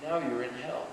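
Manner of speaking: soft, unhurried reply after the storm; compassionate. Acted. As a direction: say it softly, with compassion. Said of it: "in great compassion and said".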